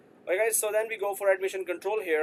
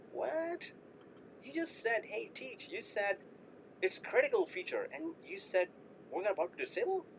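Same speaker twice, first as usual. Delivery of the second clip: mock student protest; 9 semitones higher, 5 dB quieter than usual. Student voice questioning teacher.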